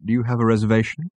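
quick, prim waiter question; snooty waiter voice. Acted. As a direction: rattle it off like a bored maitre d'. Green blur waiter asks.

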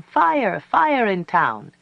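high, loud cry that falls and stretches out; child yelling alarm. A narrator's reading. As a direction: raise the alarm like a child running into town. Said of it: "a child came yelling".

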